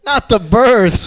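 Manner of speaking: put-on British accent. Host echoes British slang.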